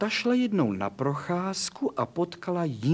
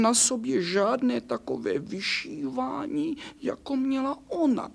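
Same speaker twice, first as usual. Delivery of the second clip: put-on higher, plaintive childlike lament; sad little nightgown; 5 semitones higher than usual. The poor nightgown complains to the angel, higher and plaintive. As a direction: pour out the hurt like a wronged little girl.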